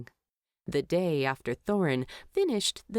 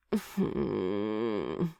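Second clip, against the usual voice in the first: wordless groan; 8 semitones lower than usual. A narrator's reading. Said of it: "Bilbo groaned wordlessly".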